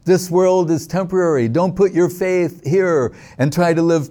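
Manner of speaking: lightly voiced child giving solemn advice; child speaking. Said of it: "this is a child speaking now".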